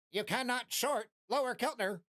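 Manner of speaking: lightly voiced automated message; mock robot alert. System alert to the floating head, lightly robotic.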